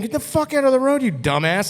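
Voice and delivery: imitating a furious driver; mock angry driver yell. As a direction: bark it like an annoyed driver back home. Angry driver honking back home.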